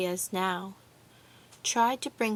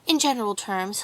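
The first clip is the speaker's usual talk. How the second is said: mildly mocking official tone, louder attack; official manner; 6 dB louder than usual. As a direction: lightly imitate an official laying down terms. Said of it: "in his official manner".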